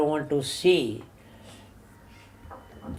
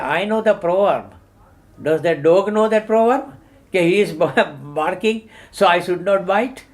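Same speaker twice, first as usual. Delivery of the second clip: louder, higher mock retort, laughing into it; animated punchline; 4 semitones higher, 5 dB louder than usual. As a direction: deliver the joke's comeback with glee. Joke punchline, man retorts.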